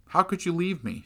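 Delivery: put-on high, shaky frightened plea of a little girl; a scared daughter pleading, voice up high; trembling child's plea. A narrator's reading. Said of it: "she said, trembling".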